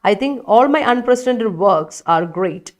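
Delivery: reads the sentence out very slowly; slowly reading a student's sentence aloud. Shown as a demonstration. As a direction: dictate it word by word to the class. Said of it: "reading student sentence slowly".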